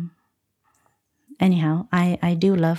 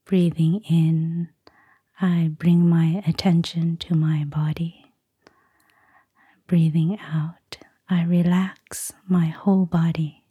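guided meditation. Acted. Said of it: "give us a short guided meditation".

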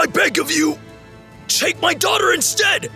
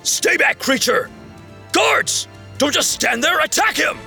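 panicked shout; 8 semitones higher than usual. Acted. Minos panics at the beast.

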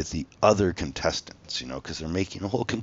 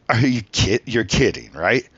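higher, louder disbelieving question; incredulous; 4 semitones higher, 8 dB louder, slower than usual. Retold or imitated. Interviewers reacting to his outburst, incredulous. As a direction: imitate a stunned interviewer. Interviewers' shocked reply, acted.

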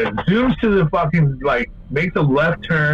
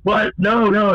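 higher-pitched startled protest; retold disbelief; 8 semitones higher, slower than usual. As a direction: imitate her startled denial. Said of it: "And then she's like".

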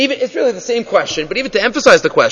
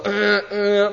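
little engine noise made by voice; imitated car noise; 7 dB quieter than usual. Teacher imitating a car starting in the morning, small engine noise. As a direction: hum a small car sputter. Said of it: "it, like, gives a little".

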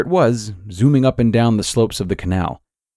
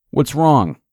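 sneering; 6 semitones higher than usual. A narrator's reading. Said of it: "Eli sneered".

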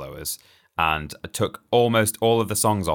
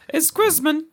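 squeaky voice; 4 dB louder than usual. Acted. Squeaky festive outburst.

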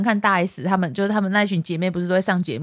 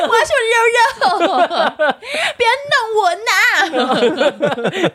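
put-on cutesy baby voice; 10 semitones higher, slower than usual. Joins in cutesy baby talk.

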